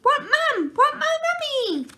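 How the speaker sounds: put-on very high loud baby wail; toddler wailing. A narrator's reading. Baby wailing for mum, very high and loud. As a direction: wail for mummy.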